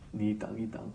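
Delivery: ordinary delivery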